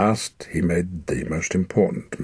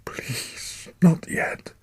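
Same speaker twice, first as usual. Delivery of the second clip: panicked plea; 12 semitones higher, much slower than usual. Acted. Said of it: "he thought in panic".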